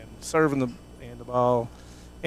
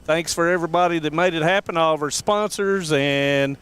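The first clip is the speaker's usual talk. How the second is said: higher-pitched announcer delivery; sportscast sign-off; 5 semitones higher than usual. Real, not acted. Commentator thanking viewers and sponsors after the game, sportscast sign-off. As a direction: sign off to the audience in a raised broadcast voice.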